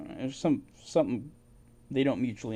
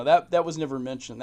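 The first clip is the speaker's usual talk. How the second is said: louder, punched out; a sudden burst of emphasis; emphatic; 6 dB louder than usual. Real, not acted. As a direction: stress it hard, almost indignant. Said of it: "repeats the line with force".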